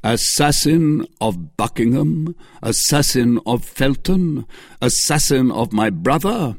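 thundering accuser; accusing cry. A narrator's reading. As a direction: denounce her before the judges. Lord de Winter accuses Milady.

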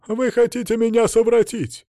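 high, stammering frightened cry; panic, stumbling over the word; hysterical accusation. Acted. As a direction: captive woman accusing her captors in fright. Hysterical captive accuses them.

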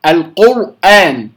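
القرآن with the ra locked hard, slowly; ra held too hard. Shown as a demonstration. Teacher showing the wrong tight ra, slow. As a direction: clamp the tongue on the ra of القرآن. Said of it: "خطأ، كلاهما خطأ".

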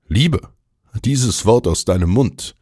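high, incredulous sarcasm; dripping irony. Acted. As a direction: scoff at the very idea. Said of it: "Meine Stimme triefte vor Ironie".

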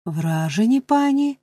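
sharp rise on «пані» in shocked disbelief; a startled beadle's exclamation; startled cry. Acted. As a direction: cry it out, jolted and incredulous. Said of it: "скрикнув містер Бамбл".

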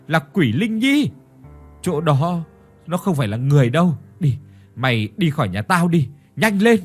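terrified, shrill shooing. Acted. Terrified woman driving maid out.

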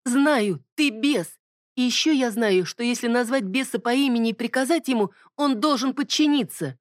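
defiant. Acted. Bonnie defies the demon.

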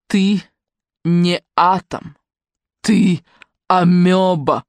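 harsh cutting remark. A narrator's reading. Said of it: "жёстко отрезала".

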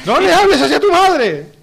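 stern scolding. Acted. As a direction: scold like an indignant parent. Parent scolds in acted family quarrel.

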